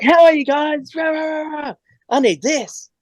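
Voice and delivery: put-on high, overfriendly French accent; lightly put-on French guy bursting in; a hint of an overfriendly Frenchman. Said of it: "very overbearingly friendly and very French".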